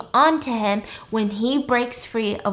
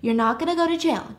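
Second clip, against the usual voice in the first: high-pitched acted comforting; high, coaxing mock reassurance; reassuring; 6 semitones higher, faster than usual. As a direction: soothe a panicking friend in a raised voice. Joe reassures freaking-out Al.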